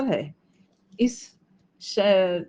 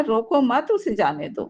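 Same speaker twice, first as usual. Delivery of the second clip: "रोको मत" raised as one phrase; kind-hearted plea. Shown as a demonstration. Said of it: "रहमदिल इंसान कह रहा है".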